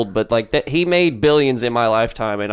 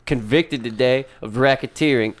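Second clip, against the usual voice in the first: news anchor. Pretend. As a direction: announce it like a TV anchor. Mock news anchor opening.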